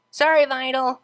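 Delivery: high, loud apologetic squeak; flustered Pegasus. Acted. Light blue Pegasus apologizing at the doorway, high and flustered.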